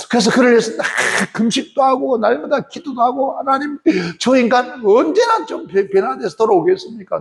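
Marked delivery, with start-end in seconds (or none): 3.4-7.2 high, pleading prayer with a hint of tears; tearful plea. Wife praying for her drunk husband, mildly tearful plea. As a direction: plead with God through mild tears. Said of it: "눈물로 기도하고".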